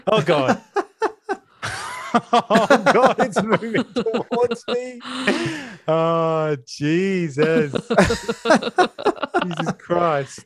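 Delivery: high, loud panicked cries with laughter; real panic at a spider nearby; screaming at a spider. Real, not acted.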